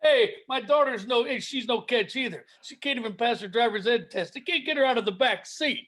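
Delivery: lightly voiced put-upon comic; hint of an old-school club comic; Rodney impression. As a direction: trade one-liners as a no-respect comedian. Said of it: "is it time for dueling Rodneys".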